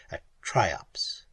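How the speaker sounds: hushed narration; whisper. A narrator's reading. Narrator whispering at the dark dens. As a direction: breathe it, barely voiced.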